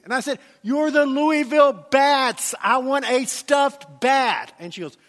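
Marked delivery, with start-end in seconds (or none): 0.6-4.5 slow insistent explaining. Retold or imitated. Arguing with gift shop clerk.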